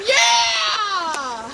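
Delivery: yelling from icy water; in ice cold water. Real, not acted. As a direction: shout through the cold.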